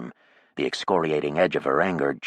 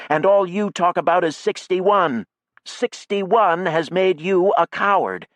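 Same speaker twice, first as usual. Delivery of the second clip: higher, louder bitter tirade; angry outcry; 10 semitones higher, 4 dB louder than usual. A narrator's reading. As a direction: build to the insult coward. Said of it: "Jackie cried".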